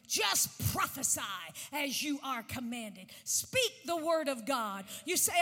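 usual speaking voice

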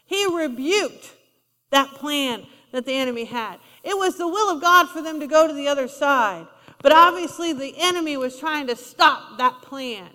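ordinary delivery

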